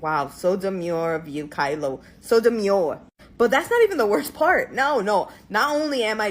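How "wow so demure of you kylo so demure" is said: lower-pitched mock New York accent. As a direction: say it in a put-on Jersey accent. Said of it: "I come up with this, like, weird accent".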